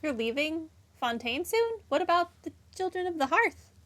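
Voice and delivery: alarmed surprise. Real, not acted. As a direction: blurt it out in shock.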